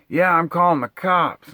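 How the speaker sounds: high, loud imitation of a suspicious neighbor; mock paranoid neighbor. Neighbor threatening to call the cops, imitated high and loud.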